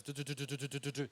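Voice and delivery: rapid du-du-du patter to mimic talking too fast; fast babble. Coach mimicking his own fast Australian talk, rapid babble. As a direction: rattle off nonsense syllables at speed. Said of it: "my mouth goes".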